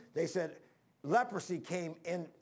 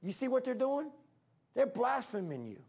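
devil tattling to God; 5 semitones higher than usual. Retold or imitated. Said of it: "he stands back and says".

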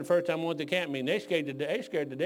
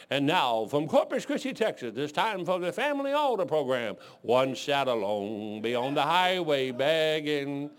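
lightly voiced radio intro, slow at the end; a hint of a preacher's radio broadcast opening; radio announcer. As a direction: announce it like an old radio show. Imitating the radio program intro.

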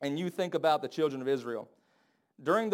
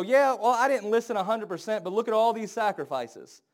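higher, louder defensive excuse; excuse-making whine; 5 semitones higher, 5 dB louder than usual. Retold or imitated. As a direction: make an excuse in a lightly whiny voice. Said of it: "we go".

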